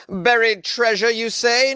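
high, slow, drawn-out disbelief; mock astonishment. Host reacting to buried treasure news, theatrical astonishment. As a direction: play the incredulous listener.

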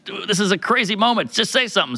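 urging. Retold or imitated. Friend nudging him to make a move, mock urging. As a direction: imitate a friend egging you on. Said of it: "he's nudging me".

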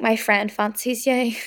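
put-on slow Belfast-accented come-on. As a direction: quote him in a Belfast accent. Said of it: "they didn't speak in a Belfast accent".

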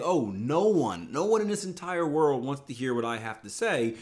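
moping parody of a limiting belief; mock self-pity. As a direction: drag it out like a sulking quitter. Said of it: "you can't limit yourself by saying".

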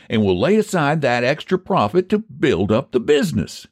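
high-pitched country bargainer; folksy haggler Phineas. Acted. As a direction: counter the offer like a stubborn pie man.

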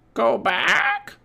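high, loud parrot squawk; Polly squawking. A narrator's reading. Parrot warning the pirates, squawking loudly. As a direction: screech it like a warning bird. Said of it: "squawked Polly".

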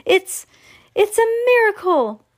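very high, loud amazement; halting, high-pitched awe; amazed gasp. A narrator's reading. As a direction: exclaim in stunned wonder. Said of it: "gasped Grandpa Joe".

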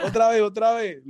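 high, laughing "otra vez"; laughing request. Retold or imitated. Laughing, asking for another take.

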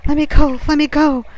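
high, very loud desperate cry; strangled yell. A narrator's reading. Thrashing sailor to his rescuer, strangled yelling. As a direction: yell it as if being choked, struggling free. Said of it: "the strangled voice".

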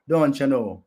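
jokey Canadian catchphrase; mock Canadian accent. Repeating how they talk in Canada, in a mock Canadian accent. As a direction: toss out a fake Canadian accent. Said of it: "That's how they talk in Canada".

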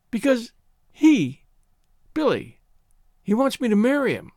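acted anguish with hesitations; distressed stammer. A narrator's reading. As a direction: blurt it out in broken pieces. Wailing girl stammers out her trouble.

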